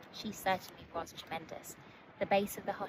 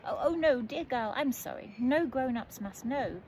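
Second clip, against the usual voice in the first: alarmed; 5 semitones higher, 5 dB louder than usual. A narrator's reading. Bird alarmed at telling parents.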